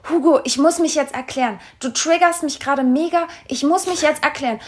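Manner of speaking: mildly worked-up, insistent retelling; imitated agitation. Boyfriend demanding to explain himself, imitated agitation. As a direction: press the point like an upset partner. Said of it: "Er war auch so richtig aufgebracht".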